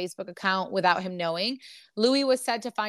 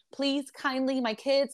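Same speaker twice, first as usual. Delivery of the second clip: higher-pitched imitation of meek begging; mock pleading; 5 semitones higher than usual. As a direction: mimic a too-polite plea. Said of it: "He's pleading with her".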